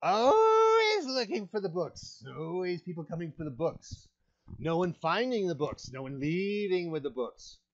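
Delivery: horrible, bestial hag voice with high swoops. Voicing the hags as they talk to the players, in a horrible bestial hag voice. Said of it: "They look like bestial hags. ... Your voice is horrible to listen to".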